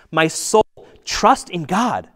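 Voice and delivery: a psalmist urging his own soul aloud; pleading with himself. Retold or imitated. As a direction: command yourself to trust. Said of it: "He's saying".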